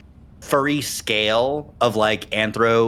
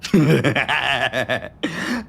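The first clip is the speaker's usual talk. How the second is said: evil cackle; 3 semitones higher than usual. Acted. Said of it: "Cackling maniacally".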